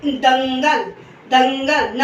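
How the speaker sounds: दंगल with the ं sounded as a nasal ng; anusvara through nose. Shown as a demonstration. Teacher showing sound from the nose, दंगल with nasal ng. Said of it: "न से जब हम बोलते हैं".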